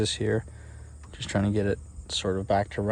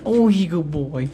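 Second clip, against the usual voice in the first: squeaky praising a dog; 6 semitones higher, 7 dB louder than usual. Real, not acted.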